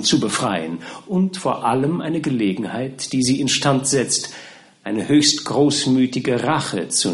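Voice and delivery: a touch of formal, measured persuasion; lightly voiced pleading lawyer. Lawyer's pleading speech to his client.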